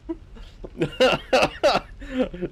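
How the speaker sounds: high, fading laughing fit; real high-pitched giggling; helpless laugh. Real, not acted. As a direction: crack up at the absurdity. Cracks up at chat message.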